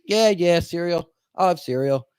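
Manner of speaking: lightly voiced Rain Man, quick repeated yeahs; a hint of Raymond's flat rote repeating; mild Rain Man voice, words echoed back; Raymond impression. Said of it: "so that's how he talks, like that".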